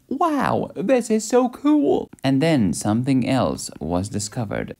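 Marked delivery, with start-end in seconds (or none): 0.1-2.1 high, excited mock Spanish accent. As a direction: gush like a thrilled Spanish conquistador, much higher. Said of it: "he said in a Spanish accent".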